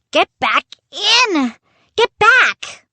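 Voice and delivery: high, panicked shouts; desperate yelling. Acted. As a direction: yell each command harder, voice climbing. Pounding on pirate's head in panic.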